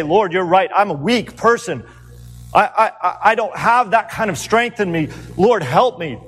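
humble plea. Acted. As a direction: beg the Lord, stammering. Imagined humble Peter prayer.

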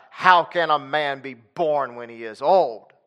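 slow, weighty, each word leaned on; slow emphatic question. Shown as a demonstration. Preacher trying one reading of Nicodemus, slow and emphatic. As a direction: ask it slowly, as if the idea is absurd. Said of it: "if he said it like that".

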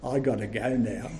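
soft, low, sweet reply; sweetly. Retold or imitated. Boy answering his mother at last, mildly sweet. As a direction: innocent little boy's answer. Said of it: "he said so sweetly".

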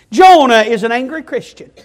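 said through a chuckle; amused laugh over the words. Real, not acted. Preacher laughing as he names Jonah's anger, chuckling.

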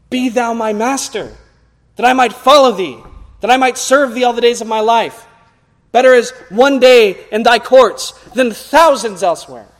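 prayerful devotion. Retold or imitated. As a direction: pour it out as a vow to the master. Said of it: "And we ... say".

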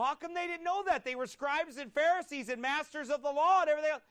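rising street-preacher shout; fiery preaching. Real, not acted. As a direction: preach it hard and high, full force. Preaching at full force.

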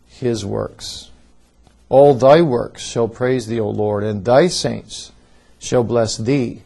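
declaiming scripture with forceful emphasis; emphatic reading. Shown as a demonstration. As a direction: lean hard into each key word of the psalm. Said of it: "I'm going to read this psalm in an emphatic way".

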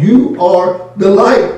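YOU drawn out slowly; slow, weighty stress on YOU; emphatic YOU. Shown as a demonstration. Preacher has listeners speaking to themselves, emphatic on YOU. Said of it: "it is emphatic".

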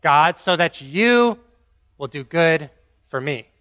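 a hint of a bargaining son building to pay up; lightly voiced self-righteous demand; entitled believer. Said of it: "To say".

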